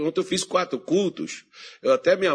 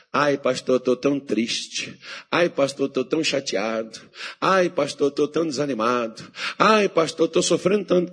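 mock whining believer; 3 semitones lower than usual. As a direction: parody a self-pitying church member. Mimics whining churchgoer.

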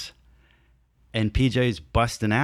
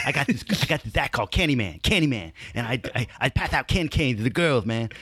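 a hint of a hyped-up hulky dancer; Rob's talk; 3 semitones higher, faster than usual. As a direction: rattle it off fast like an eager big dude. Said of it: "he kinda talks like this".

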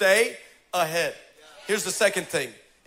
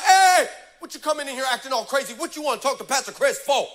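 spicy attitude; 6 semitones higher, 3 dB louder than usual. Retold or imitated. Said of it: "comes with all the spicy".

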